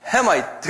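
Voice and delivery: 햄아이트 said as English Hamite, with the 햄 vowel; teacher sounding out 햄아이트; English pronunciation demo. Shown as a demonstration. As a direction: model 햄아이트 for the class. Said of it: "함의 자녀들 그럼 뭐라 불러요".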